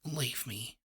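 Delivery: faint whisper; barely audible plea. A narrator's reading. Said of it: "she whispered".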